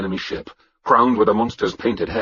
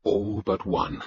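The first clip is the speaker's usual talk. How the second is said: quiet, solemn prayer; soft-spoken plea to a god; 7 dB quieter, slower than usual. Acted. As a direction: add it softly to the prayer. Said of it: "I prayed to Thor".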